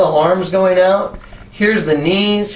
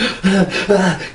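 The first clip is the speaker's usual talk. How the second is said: shaking, freaked-out gasping; imitated panicked gasps. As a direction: gasp as if starting to panic. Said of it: "He started freaking out".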